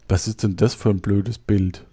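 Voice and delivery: ordinary delivery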